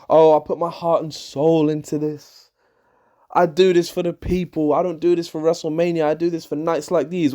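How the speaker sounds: imitating an over-earnest babyface speech; mock cringe promo. Wrestling fan mimicking Bayley's promo to the crowd, mock-earnest. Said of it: "Her promos are so cringe".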